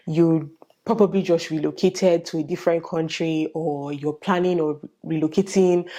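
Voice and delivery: ordinary talk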